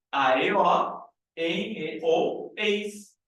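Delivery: "E ou eis" spelled out slowly; slow enumeration. Shown as a demonstration. Teacher dictating the accent rules to students. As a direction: list the endings very slowly. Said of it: "spells endings".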